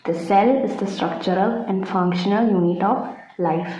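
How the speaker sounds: slow, careful dictation pace. Acted. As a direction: spell it out for notes, slowly. Dictating definition slowly. (പതുക്കെ പറഞ്ഞുകൊടുക്കുന്ന രീതി)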